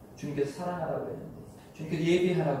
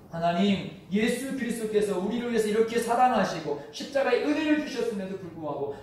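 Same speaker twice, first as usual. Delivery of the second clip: high, loud lamenting plea to God; pleading lament, voice raised high; anguished prayer; 7 semitones higher, 5 dB louder than usual. Acted. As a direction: cry out to God in grief over a weak faith. Preacher voicing anguished lament prayer.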